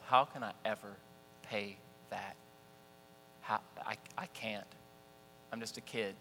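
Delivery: soft, hushed hopelessness; a kid overwhelmed by a debt; mild hushed worry; quiet despair. Retold or imitated. His despair over the bill.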